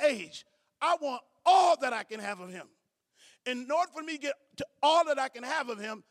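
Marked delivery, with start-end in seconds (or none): 0.8-2.7 louder declaration. Real, not acted. Pastor to church, declaring hunger for God loudly. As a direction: press hard on ALL, rising volume. Preacher building to emphasis.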